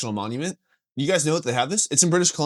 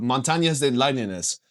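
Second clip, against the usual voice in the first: slow faux-Spanish pronunciation; Spanish accent; 3 semitones lower, slower than usual. Shown as a demonstration. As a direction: roll it out in Spanish. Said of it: "how you say mountain lions in Spanish".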